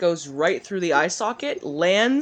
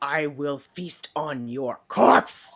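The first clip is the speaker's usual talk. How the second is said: low, rumbling, growled monster voice, threatening; 4 semitones lower than usual. A game master voices a foe growling back at a player: growling. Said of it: "growls right back at you and says".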